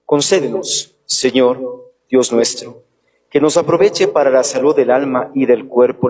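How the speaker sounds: solemn prayer, evenly intoned; liturgical prayer. Acted. Priest recites the closing prayer. (oración litúrgica solemne)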